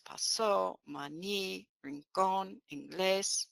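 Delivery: "pasó, maní, rincón, inglés", each stressed on the accented last syllable; accented final syllable. Shown as a demonstration. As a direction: list "pasó, maní, rincón, inglés" as pa-SÓ, ma-NÍ, rin-CÓN, in-GLÉS. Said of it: "mark the word with a written".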